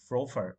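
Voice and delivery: frofer, both p sounds of proper turned to f; f in place of each p. Shown as a demonstration. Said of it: "the worst version".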